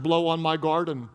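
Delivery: deadpan, pitched a bit low; straight-faced. Shown as a demonstration. Pastor reading a suggestive verse to the congregation, straight-faced. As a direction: read it out deadpan, no comment. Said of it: "say it with a straight face".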